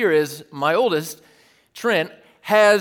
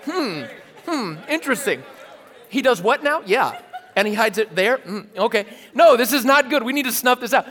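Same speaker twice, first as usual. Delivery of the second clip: higher, plotting listeners' voice; mock scheming audience; 4 semitones higher than usual. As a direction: play the viewers as scheming plotters. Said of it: "you guys are like".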